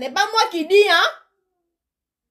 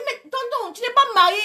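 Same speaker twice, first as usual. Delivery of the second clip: whispered "tu n'es pas marié"; 7 semitones higher than usual. Retold or imitated. Telling the uncle he isn't married, whispered. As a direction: hush it like a secret.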